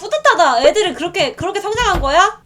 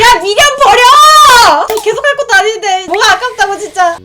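sharp, loud call to let it go; loud scold; 6 semitones higher, 8 dB louder than usual. Real, not acted. Scolding herself over a mission, loud. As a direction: snap at herself to give up.

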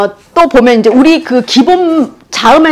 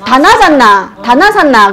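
Gyeongsang way of saying 다나산나; Gyeongsang dialect. Shown as a demonstration. Teacher giving her own Gyeongsang dialect form. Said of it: "우리 그러거든요".

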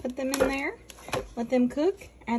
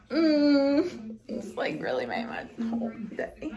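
choked-up crying. Real, not acted. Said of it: "I'm crying".

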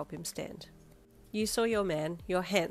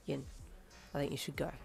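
blunt; 3 semitones lower, 7 dB quieter, faster than usual. A narrator's reading. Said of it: "he said bluntly".

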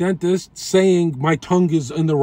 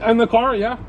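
yelling over leaf blower; 6 semitones higher than usual. Real, not acted. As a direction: call out over the noise. Shouting to worker over blower.

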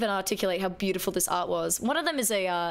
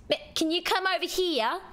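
higher, lightly voiced customer calling staff; a touch of a customer summoning a clerk; mock shopper calling out; retail customer call; 7 semitones higher than usual. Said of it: "reminding me of retail days".

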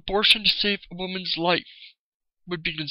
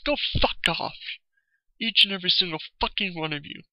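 angry dismissal; faster than usual. Real, not acted. Vlogger telling control-seekers to go away, angry. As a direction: dismiss them with real anger. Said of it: "but I'm just pissed off".

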